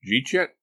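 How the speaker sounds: JEET YET run together, pitched high and punchy; quick, high Southern-style "Jeet yet?"; slurred dialect question. Acted. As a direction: slur "did you eat yet" into "Jeet yet?". Warble's slurred dialect question, later explained.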